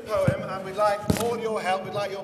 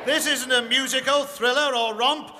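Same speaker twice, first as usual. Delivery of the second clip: louder, sulky and huffy; petulant; 5 semitones higher, 9 dB louder than usual. Acted. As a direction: stamp your foot like a spoiled grump. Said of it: "said Scrooge with a petulant stomp".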